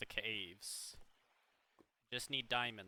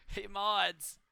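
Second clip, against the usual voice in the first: higher, louder call for attention; 7 semitones higher, 6 dB louder than usual. Acted. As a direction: shout across the room at the mods. Calling the mods louder.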